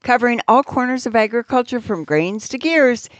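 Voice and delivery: steady radio commercial read. Acted. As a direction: sell it like a farm-paper spot.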